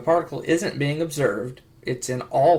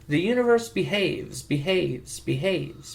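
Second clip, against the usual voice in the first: glitchy skipping repeats; glitching; 3 semitones higher, slower than usual. Acted. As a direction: stutter like a broken recording. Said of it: "Did you just glitch".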